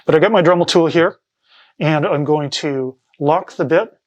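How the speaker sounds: muffled behind a face mask; talking through a dust mask. Real, not acted. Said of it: "muffled talking through my face mask".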